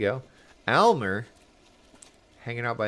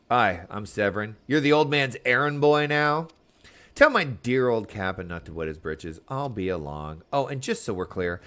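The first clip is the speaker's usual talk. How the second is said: tough pirate brat; 4 dB louder than usual. Acted. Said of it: "I guess he was supposed to sound tough".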